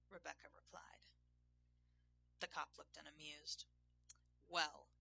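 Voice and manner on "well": loud, grumpy grunt. A narrator's reading. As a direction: grump it out loudly. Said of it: "he grumped".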